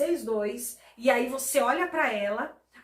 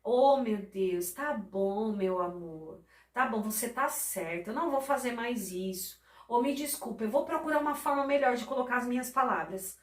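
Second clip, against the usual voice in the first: tender apology; 2 semitones lower than usual. Retold or imitated. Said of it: "você fala assim".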